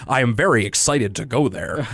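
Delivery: lightly put-on white guy astronaut; a hint of stiff older Arthur; stereotypical white guy voice. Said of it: "a stereotypical white guy voice".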